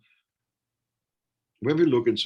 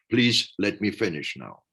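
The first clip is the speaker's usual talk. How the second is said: louder and higher, firm but not angry; raised voice; 4 semitones higher, 5 dB louder than usual. Retold or imitated. Talked-over speaker demanding to finish, louder and firm. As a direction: cut through the interruption firmly. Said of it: "you have to raise your voice and say".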